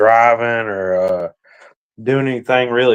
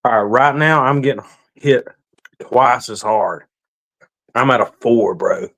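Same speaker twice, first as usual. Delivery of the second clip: mouth burning from spicy food. Real, not acted. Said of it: "that stings like fire".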